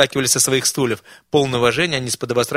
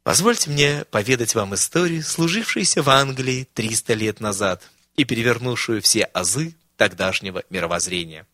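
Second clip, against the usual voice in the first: gentle; 3 semitones lower than usual. Acted. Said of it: "ласково начинал".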